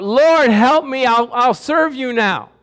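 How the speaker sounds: slow desperate plea for help; pleading cry. Retold or imitated. Preacher voicing the damned crying to the Lord, slow and pleading. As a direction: beg like a soul crying out in torment. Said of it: "People down there crying out".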